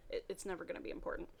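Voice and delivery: fast unvoiced whisper under the breath; hurried sarcastic whisper to herself; muttered aside. Real, not acted. Reader mocking the author's note in a fast whisper.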